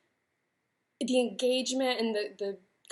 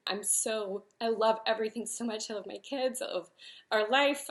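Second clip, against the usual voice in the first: real tearful voice. Real, not acted. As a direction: voice cracking as she holds back crying. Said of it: "Oh Lord, I do need tissues".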